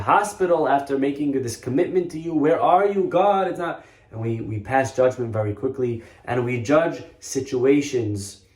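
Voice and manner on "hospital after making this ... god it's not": raised, higher mock plea; imitated anguished cry upward; crying out to God. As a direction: call out to God in protest.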